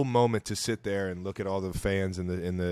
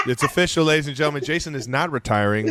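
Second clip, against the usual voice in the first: mock announcer; 5 semitones higher, 4 dB louder than usual.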